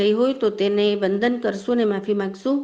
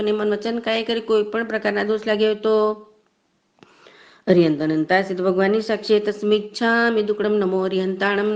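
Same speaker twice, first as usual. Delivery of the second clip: liturgical recitation. Acted. Recites closing formula and Navkar.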